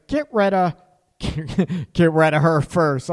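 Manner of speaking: slow, laughing at own blunder; laughing slip. Real, not acted. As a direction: let the laugh break in on the gaffe. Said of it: "I can't believe I just said that".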